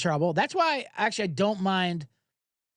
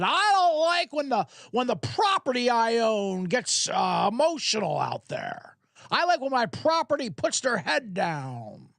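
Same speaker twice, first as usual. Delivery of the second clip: rich owner impression; 3 semitones higher than usual. Mocking a rich owner lecturing about his players, lightly voiced. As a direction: play a smug team owner talking down about his players. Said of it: "That was my impression of some, some rich owner".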